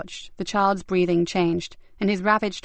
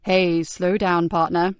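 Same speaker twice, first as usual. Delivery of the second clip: calming; slower than usual. Acted. Calming the agitated boy.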